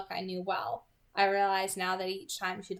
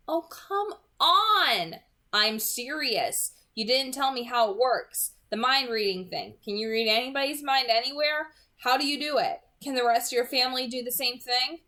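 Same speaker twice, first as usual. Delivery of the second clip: loud, urgent questions tumbling out; eager insistence; 5 semitones higher, 6 dB louder than usual. Acted. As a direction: press her, you can't wait to know. Pressing her for answers excitedly.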